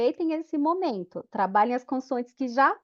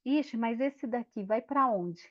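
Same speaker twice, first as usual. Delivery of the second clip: put-on puzzled child; 6 dB quieter than usual. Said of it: "porque ela olha assim".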